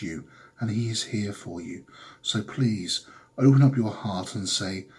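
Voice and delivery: lightly hammed-up TV preacher, fervent bursts on praise. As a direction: preach the miracle like a televangelist. Televangelist preacher sketch.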